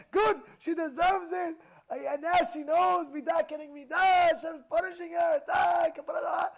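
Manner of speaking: loud, high shouted approval; mock crowd cheering. Rabbi imitates people shouting approval. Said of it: "people will say".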